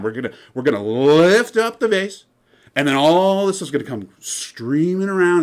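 teasing hype host. Retold or imitated. Host keeps teasing the lift.

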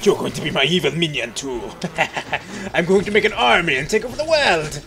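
playful evil overlord building to a big boast; hammed-up villain. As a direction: declare world domination with a mock villain laugh. Playful villain boast about world domination.

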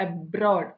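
അബ്രോഡ് with a weak first A; stress on second syllable. Shown as a demonstration. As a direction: lean on "ബ്രോഡ്" in അബ്രോഡ്. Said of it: "എ വെറും silent ആണ്".

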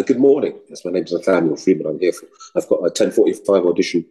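put-on low, polite English-accented introduction; English auditioner. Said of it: "I'm just gonna go in English".

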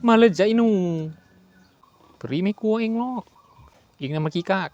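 a hint of cocky bravado; mock taunt. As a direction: jokingly dare the ghost. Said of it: "พูดเล่นครับ".

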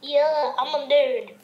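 rapping in a goofy nerd voice. Pretend. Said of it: "I gotta make my nerd voice".

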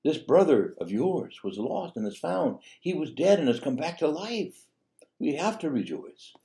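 high, slow, earnest plea; pleading father. Retold or imitated. Father pleading with his sullen son, slow and earnest. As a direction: coax the son gently to come in. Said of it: "pleaded with his son to enter".

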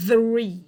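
"three" said loud and crisp, tongue through the teeth into the R; careful TH plus R. Shown as a demonstration. Teacher showing students how to say three. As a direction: punch out "three", joining TH and R. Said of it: "เอา T H และ R มาอยู่ด้วยกันให้ได้เนอะ".

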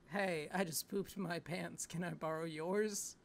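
slow, drawn-out sleazy flirt; cheesy pickup line.

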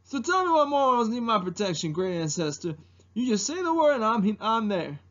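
eager, fast-talking dragon volunteer; Mushu. Acted. Dragon volunteering protection to great ancestor, eager impersonation. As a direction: offer service, pitch jumping up then dropping. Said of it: "doing an impersonation of Mushu".

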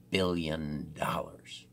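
hushed whisper; whispering the big number; whispered quote. Retold or imitated. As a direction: drop to a secretive whisper. Quoting company claim, whispered.

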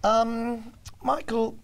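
high, slow, halting fan voice; imitating a nervous young fan; mocking young fan. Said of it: "young sort of Juno type fans".

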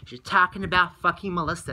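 reenacted annoyed confrontation; retold mad. Confronting a friend who didn't hear about the depression, mad. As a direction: retell it with heated stress on the swearing. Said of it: "that really made me mad".

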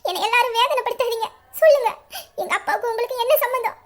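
a tearful plea that swells at the end; tearful pleading. Acted. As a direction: beg him for the truth while crying. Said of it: "அழுவாத, அழுவாத".

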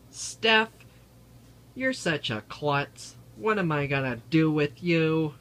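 loud, high teasing call-out; teasing shout. Pretend. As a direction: shout it playfully at Steph. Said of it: "and he's going to say".

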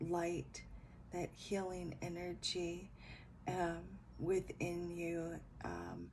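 soft, calm meditation voice; guided meditation. Acted. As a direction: lead the listener into healing light. Leads a healing visualization.

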